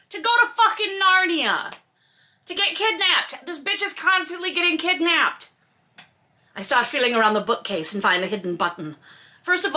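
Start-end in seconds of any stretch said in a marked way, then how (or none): 0.1-5.5 exasperated outburst. Pretend. Exasperated outburst about kidnappings.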